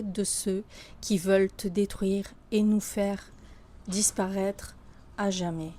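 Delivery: solemn, heartfelt declamation with long pauses; poem recitation. Acted. Author reciting a love poem to France, solemn declamation. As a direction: recite it as an ode, phrase by measured phrase.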